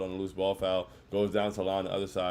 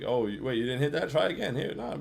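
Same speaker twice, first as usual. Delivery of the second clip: mock coaxing a kid; 5 semitones higher than usual. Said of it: "It's like when you playing with a little kid".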